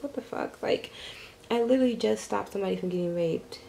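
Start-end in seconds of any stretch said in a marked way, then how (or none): 0.0-0.6 unvoiced what the fuck, much softer; stunned at the friend's reply, whispered; whispered disbelief. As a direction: whisper it in shock. Reaction to friend's uncaring reply.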